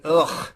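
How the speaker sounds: imitated "ugh" of disgust; disgusted groan. Host mimicking everybody who hates the band, disgusted groan. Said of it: "why does everybody keep going".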